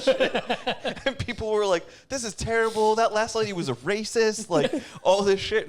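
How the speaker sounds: can barely hold the laugh in; laughing while telling. Real, not acted. Telling friends about a blind prank, laughing high. Retelling comments, cracking up.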